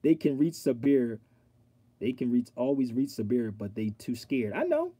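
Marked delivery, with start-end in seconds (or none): 0.0-3.5 spelling out the comment word by word; reading it out. Shown as a demonstration. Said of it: "Let me read".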